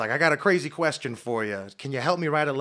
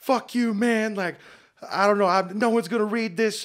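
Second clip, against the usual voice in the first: high-pitched screaming, yelling outburst; 8 semitones higher, 4 dB louder than usual. Retelling screaming at the guy at the end: imitating own past screaming. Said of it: "I'm just screaming at him".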